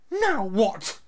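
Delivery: high, sharp, annoyed "Now what?"; an exasperated aunt snapping; irritated woman's voice; furious aunt. Acted. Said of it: "looking furiously at Harry".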